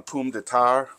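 "pomme de terre" said the French way, as pom duh tehr; Cajun French. Shown as a demonstration. Cajun cook naming potatoes for viewers, "pomme de terre" in French. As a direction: give "pomme de terre" its South Louisiana French sound. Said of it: "as they say in South Louisiana".

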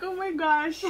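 excited aunt. Retold or imitated. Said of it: "She's like".

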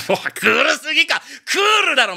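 loud, high excited shout. Real, not acted. Fan reacting to the opening with an excited shout. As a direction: yell it out in delight.

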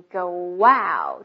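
"go wow" with a w glide joining the words; linked go out. Shown as a demonstration. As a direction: glide from "go" into "wow" without a break. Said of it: "中间加个哇的音". (go wow 中间加哇的音连读)

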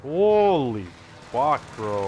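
loud startled exclaim; shocked. Real, not acted. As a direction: blurt it out in shock. Sudden shock in game.

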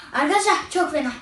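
talking through a burning mouth; words strained by burning pepper; mouth full of hot food. Real, not acted. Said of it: "dilim yandı". (ağzı acıyla yanarken konuşma)

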